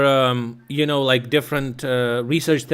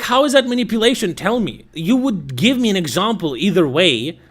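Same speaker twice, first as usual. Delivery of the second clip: higher, fast, pressing challenge; challenging; 4 semitones higher than usual. Retold or imitated. Pressing her to explain the manipulation, higher fast challenge. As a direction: corner her with the question.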